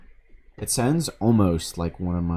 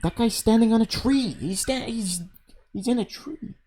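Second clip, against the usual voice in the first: surprised. Real, not acted. Surprised reaction to game.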